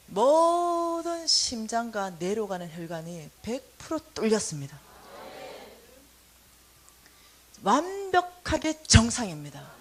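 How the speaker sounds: slow, measured doctor's verdict; doctor's announcement. Retold or imitated. Doctor announcing the scan results, slow and measured. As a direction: announce it slowly and formally.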